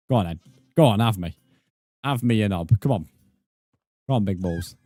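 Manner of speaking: real mock-tough taunt; taunting shout. Real, not acted. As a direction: egg the goat on to charge you. Taunting a goat in game.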